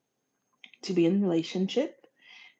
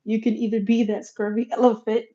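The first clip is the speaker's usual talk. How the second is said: playful; 4 semitones higher, 9 dB louder than usual. Retold or imitated. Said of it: "contrasting the misheard phrase".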